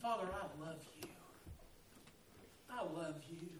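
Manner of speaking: soft, low model prayer; tender I love you. Shown as a demonstration. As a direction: say it like a child to his dad. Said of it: "and say".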